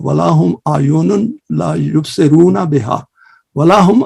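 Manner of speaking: measured Arabic verse recitation; lightly intoned scripture in Arabic; Quran recitation. Acted.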